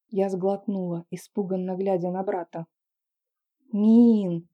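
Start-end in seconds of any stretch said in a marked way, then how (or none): none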